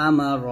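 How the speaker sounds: আমা র ending in a rounded "ro"; full "ro" closing আমা র; round RO, not RA. Shown as a demonstration. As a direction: round the vowel of র. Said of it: "রা পড়বেন না".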